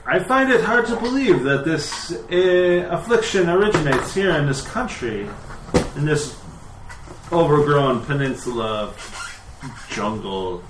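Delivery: wide-eyed disbelief. Acted. Priest answers visitors about the sickness, wide-eyed disbelief. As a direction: voice lifts in startled doubt. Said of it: "His eyes kinda go wide".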